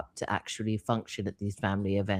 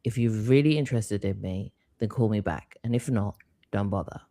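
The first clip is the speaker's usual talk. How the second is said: put-on French accent; 2 semitones lower than usual. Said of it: "imagine a thick French accent saying".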